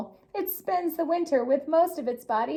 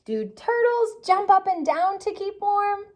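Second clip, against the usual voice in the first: playful question; 8 semitones higher, 3 dB louder than usual. A narrator's reading.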